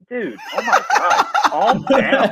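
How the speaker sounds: high laughing disbelief; cracking up at a silly tweet; exasperated laughing. Real, not acted.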